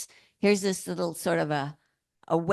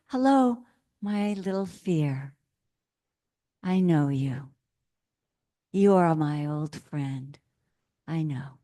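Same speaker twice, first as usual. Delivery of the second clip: gentle greeting to fear; 2 semitones lower than usual. Retold or imitated. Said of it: "this is what Thich Nhat Hanh says".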